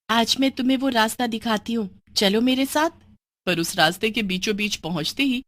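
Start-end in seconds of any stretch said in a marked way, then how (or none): 0.1-2.9 put-on young girl Bini.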